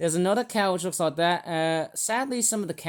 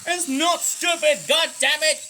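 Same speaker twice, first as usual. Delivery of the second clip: mock angry; 10 semitones higher, 4 dB louder than usual. Snapping back at the toy.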